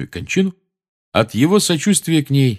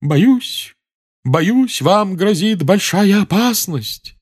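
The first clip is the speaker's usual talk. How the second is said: high, slow, louder ominous seer; dramatic proclamation; 11 semitones higher, 4 dB louder, much slower than usual. A narrator's reading. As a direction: proclaim doom theatrically. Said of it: "драматически возвестила профессор Трелони".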